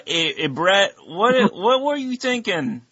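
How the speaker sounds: high-pitched mock Canadian wife voice, laughing through it; bad Canadian accent. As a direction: ham up a Canadian wife scolding her husband. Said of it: "our terrible Canadian accents".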